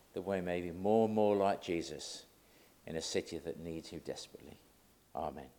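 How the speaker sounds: low, soft praying voice; prayer. Real, not acted. Preacher praying before the talk, low and soft prayer. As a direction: pray quietly to the Lord.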